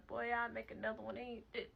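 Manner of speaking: mock big talk from back then. Mother mimicking her old brash self, big talk. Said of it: "I used to talk all big stuff".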